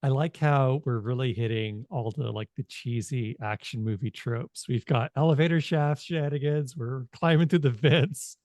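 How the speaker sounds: ordinary talk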